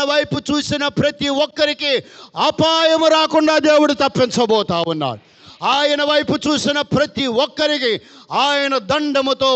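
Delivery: ringing sermon proclamation; preaching. Acted. Pastor promising deliverance to the church, fervent proclamation. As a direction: proclaim each promise boldly.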